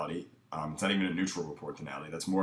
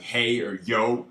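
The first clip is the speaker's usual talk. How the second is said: a loud, strong call to open; loud opener; 3 semitones higher, 5 dB louder, much slower than usual. Shown as a demonstration. Coach demos his opening greeting, loud and strong. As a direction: bark the greeting out with confidence. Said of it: "it's loud".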